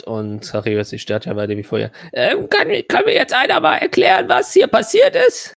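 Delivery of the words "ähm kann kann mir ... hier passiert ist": demanding shout. Acted. Clock demands again.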